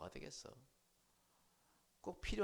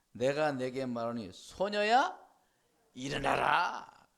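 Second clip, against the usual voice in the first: Jesus commanding; 2 semitones lower, 12 dB louder, slower than usual. Acted. Jesus calling the dead girl to rise, slow loud command. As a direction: raise her with a drawn-out call. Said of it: "번역하니 뭐라고 그랬다고".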